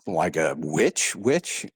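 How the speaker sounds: slow, then rising in disbelief; incredulous question. Retold or imitated. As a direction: check you heard that word right. Questions what friend means by witch.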